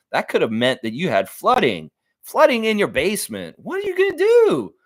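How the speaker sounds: hammed-up radio ad pitch, building up at the end; mock ad read. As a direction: sell it like a local TV commercial. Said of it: "how he said he wants me to do".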